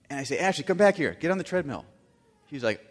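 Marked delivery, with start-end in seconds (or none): 0.4-1.8 commanding. Retold or imitated. Dad commanding daughter.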